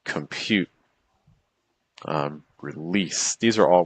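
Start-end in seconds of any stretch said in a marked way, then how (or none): 0.0-0.7 "compute" with the weight on "-pute"; light "com", stressed "PUTE"; iambic stress. Shown as a demonstration. Teacher giving students an iambic example word, second-syllable stress. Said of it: "some words that are iambic". 2.6-3.4 "release" slowly, with the weight on "-lease"; light "re", long stressed "LEASE"; iambic stress. Shown as a demonstration. Teacher giving students an iambic example word, second-syllable stress. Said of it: "some words that are iambic".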